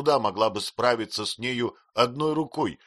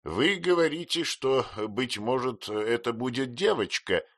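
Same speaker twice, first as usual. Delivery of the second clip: domineering aunt; 6 semitones higher than usual. A narrator's reading. Aunt declares to the mother she'll be godmother, commandingly. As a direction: lay down the law. Aunt decrees about the girl.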